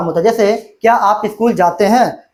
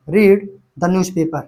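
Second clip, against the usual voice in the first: slow dictation; 3 semitones lower, much slower than usual. Shown as a demonstration. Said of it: "slow dictation while writing".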